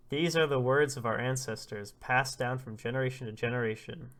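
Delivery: loud, declaimed oration; solemn old prophet. Acted. Elder passing down words of ancestors, solemn proclamation. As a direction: proclaim it formally with weight on key words.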